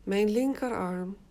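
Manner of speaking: slow, even autogenic formula. Shown as a demonstration. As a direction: say it slowly, for them to repeat. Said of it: "Herhaal in gedachten twee keer". (langzame formule)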